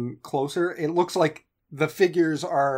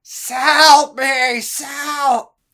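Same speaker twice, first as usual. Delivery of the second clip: very loud, very high snake-like hiss, drawn out; 11 semitones higher, 9 dB louder than usual. Narrating a game, the speaker voices a distant cry for help with hissed s's. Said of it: "help, but with kind of S's added in".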